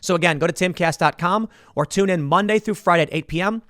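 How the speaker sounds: even, measured promo read; podcast outro read. Acted. Host closing the podcast segment, steady promo read. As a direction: pitch the membership like an announcer.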